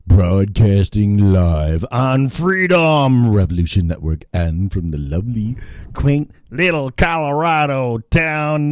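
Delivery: slow, swooping broadcaster intro; radio show opening. Acted. Host introducing the Colorado broadcast, showy announcer delivery. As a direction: announce the show with drawn-out flourish.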